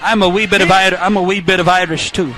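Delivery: lightly put-on Irish brogue; playful hint of an Irish lilt; mock Irish accent. Announcer joking along with co-host about Irish roots, mock Irish accent.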